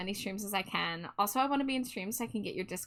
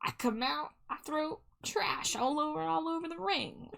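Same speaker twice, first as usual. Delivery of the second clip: reciting the trash man bit; 6 semitones higher, 4 dB quieter than usual. Retold or imitated. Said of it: "sound redeem".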